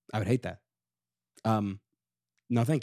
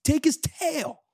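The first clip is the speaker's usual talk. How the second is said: high, pleading voice full of pity for Eeyore; high-pitched pity; 10 semitones higher than usual. Real, not acted. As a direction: whine it out high on his behalf. Pity rant about Eeyore.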